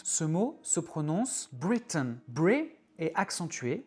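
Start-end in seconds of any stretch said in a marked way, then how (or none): 1.5-2.2 Britain with the second vowel reduced to a schwa; English word Britain. Shown as a demonstration. Teacher models Britain for French learners. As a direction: Britain said as BRIT-un. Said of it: "Observe et écoute".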